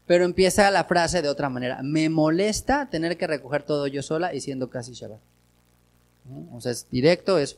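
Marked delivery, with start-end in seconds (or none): 1.8-5.2 gentle complaint. Retold or imitated. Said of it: "es suave".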